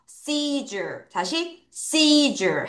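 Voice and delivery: "seizure" put together slowly as SEE-jer; teacher's drawn-out model of "seizure" as SEE-jer; pronunciation demo. Shown as a demonstration. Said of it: "그래서".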